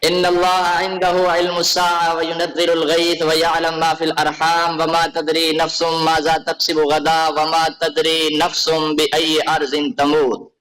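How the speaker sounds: slow, measured Quranic recitation. Acted. Scholar reciting the verse to his debate opponent, slow tilawat. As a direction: intone the verses slowly like tilawat.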